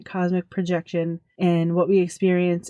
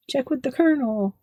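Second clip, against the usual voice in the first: KFC Colonel voice; 6 semitones higher than usual. Retold or imitated. Imitating KFC ad voice.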